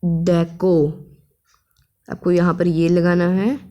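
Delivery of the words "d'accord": डेको said as French d'accord. Shown as a demonstration. Teacher models डेको for students, in French. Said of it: "okay को हम कहते हैं French में".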